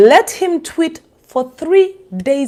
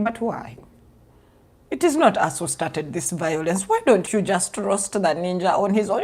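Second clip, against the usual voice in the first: mock plea; 4 semitones lower, 10 dB quieter than usual. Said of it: "I was like".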